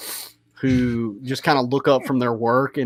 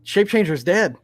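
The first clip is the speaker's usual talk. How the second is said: high, loud gnome call; yelling back; 9 semitones higher, 5 dB louder than usual. Acted. Gnome yelling to his king through the door, urgent shout.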